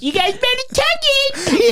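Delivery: menacing villain voice. Retold or imitated. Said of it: "He goes".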